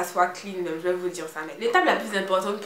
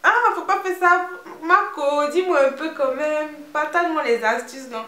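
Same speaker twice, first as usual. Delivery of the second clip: put-on loud, high pleading in an Ivorian accent; hammed-up Ivorian-accented begging, with a high whining hum; 3 semitones higher, 5 dB louder than usual. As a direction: wheedle for secrets like a pestering Ivorian friend. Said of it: "c'est avec l'accent ivoirien qui va avec".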